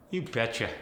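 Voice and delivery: Minnesotan "you betcha"; Fargo accent. Shown as a demonstration. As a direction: agree like a Fargo local. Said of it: "you might say".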